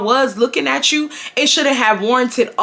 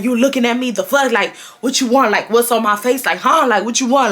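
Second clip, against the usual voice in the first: mock a boy looking for trouble; retold confrontation. Boy confronts her over a look, mildly confrontational. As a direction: imitate his confrontational questioning, only slightly raised. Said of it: "he talking like that".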